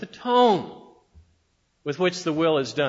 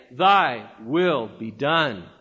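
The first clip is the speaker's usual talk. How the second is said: slow, lower, bitter through clenched teeth; 5 semitones lower, much slower than usual. Shown as a demonstration. Preacher showing the bitter prayer, slow through clenched teeth. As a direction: grind it out slowly between clenched teeth. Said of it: "with clenched and bitter teeth".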